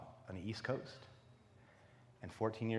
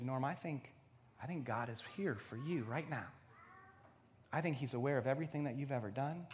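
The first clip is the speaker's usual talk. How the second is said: gently earnest and tender, a little softer; kind; 6 dB quieter than usual. Retold or imitated. Young woman telling a homeless man of mercy, kindly. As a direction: lean in with quiet, kind assurance. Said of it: "in this beautifully kind way".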